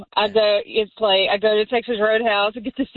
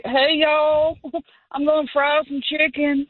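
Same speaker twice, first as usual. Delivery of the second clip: high, loose, tipsy big brother; playing a drunk sibling announcing dinner; 6 semitones higher than usual. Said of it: "that's my drunk brother voice".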